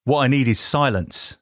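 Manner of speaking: lightly put-on Penfield accent; mock-earnest quote in a Penfield accent. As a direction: deliver it as a line in the Penfield accent. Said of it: "that's more the Penfield accent".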